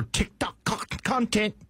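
shaky attempt at a Melbourne accent. Co-host mocking a TikTok Uber driver, attempted Melbourne accent. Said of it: "Are you doing a Melbourne accent".

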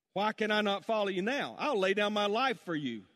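mild fervent pledge; passionate disciple. Acted. Peter pledging his life to Jesus, mildly passionate. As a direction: declare loyalty with a touch of passion. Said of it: "this story of Peter's passion".

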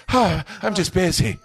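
hammed-up busy sigh; mock busy reply. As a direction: act all out of breath and busy. Mocks busy reply again.

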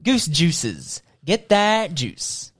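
tagline read. Pretend. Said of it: "this is our tagline".

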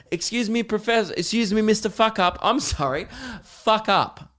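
mock nervous pupil, high; timid student. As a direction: fumble the teacher's title and say sorry. Student addressing Professor Fuck Up.

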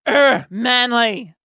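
slow, hammed-up tough-guy grunt; mock macho. Boasting about the stitch, mock-macho grunt. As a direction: growl it like a caveman boasting.

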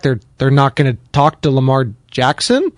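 usual speaking voice

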